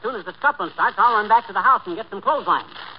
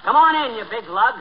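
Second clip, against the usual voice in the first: loud call; 5 semitones higher, 5 dB louder than usual. Acted. Greeting the cop at the door.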